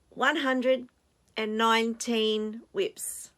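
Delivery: announced loud, then slowed right down; dramatic reveal. Real, not acted. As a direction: savour the big number. Big reveal after drum roll.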